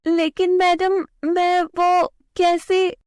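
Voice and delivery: put-on high, slow, hesitant child voice; nervous little girl. Girl unsure before her teacher, high and faltering. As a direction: falter as you doubt yourself.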